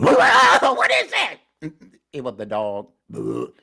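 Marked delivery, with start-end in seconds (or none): 0.0-1.7 high, loud, very slow scared cry; frightened animal. Acted. Animal hears a spooky noise in the dark, crying out afraid. 3.1-3.5 spooky boo. Acted. Ghostly noise.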